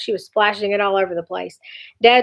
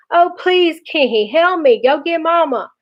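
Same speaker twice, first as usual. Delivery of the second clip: panicked pleading; 7 semitones higher than usual. A narrator's reading. Brother with lips frozen to the mirror begs Kenny, panicked pleading. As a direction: mock-desperate higher plea of a stuck boy.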